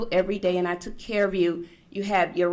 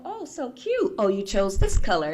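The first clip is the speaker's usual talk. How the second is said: mock gushing in a high voice; gushing friends; 3 semitones higher than usual. Friends come over to see the crib, high-pitched gushing. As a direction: coo like an admiring visitor.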